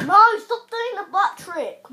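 scolding shout. Real, not acted. Scolding sister entering.

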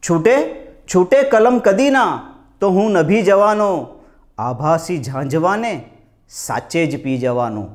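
slow, declaimed verse with swooping line endings; measured, lilting Gujarati poem recital; poetry recitation. Acted. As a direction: recite it like a mushaira poet, pausing between phrases. Recites second muktak.

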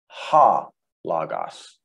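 "ha logos" slowly, with a clear H opening "ha"; rough breathing H. Shown as a demonstration. Teacher showing the rough breathing mark, slow clear H on ha. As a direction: sound out the H in "ha", then "logos". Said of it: "you're gonna say ha in front of it".

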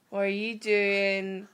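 drawn-out questioning of the dog; slow, suspicious. Real, not acted. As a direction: stretch it out, suspicious.

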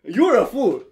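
high, loud shouted insult; mock screaming. Retelling the film characters screaming at each other, mock shouting. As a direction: holler it like a hammed-up film quarrel. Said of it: "they're fucking screaming at each other".

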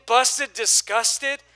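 slowed right down, word by word; slow rhythmic emphasis. Acted. Preacher rhyming for the congregation, slow emphasis. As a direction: lean on each word, slowly.

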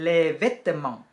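les vêtements as "lay vet-mahn"; les vêtements said as a model; French pronunciation. Shown as a demonstration. Teacher naming the clothes, careful French. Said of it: "อ่านว่า".

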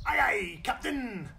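hint of a West Country pirate sailor answering the captain; playful half-done pirate accent. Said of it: "Don't know if that's pirate or, uh, deep south".

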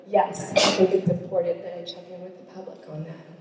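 slightly winded, catching breath. Real, not acted. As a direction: talk through short breaths. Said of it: "I don't know why I'm out of breath".

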